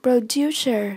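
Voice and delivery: "Producer" stressed on DU; light pro, weighted DU in "Producer"; stress on second syllable. Shown as a demonstration. Teacher modelling vocabulary for learners, "Producer" stressed on DU. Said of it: "nhấn âm, âm hai".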